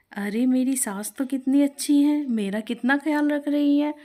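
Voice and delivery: pleased new bride thinking of her kind mother-in-law; happy daughter-in-law. Acted. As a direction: gush with pleased surprise. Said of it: "ये सुनकर शिप्रा बेहद खुश हुई".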